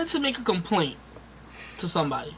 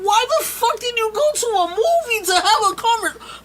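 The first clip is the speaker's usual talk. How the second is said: retold angry rant; 9 semitones higher than usual. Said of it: "I'm like".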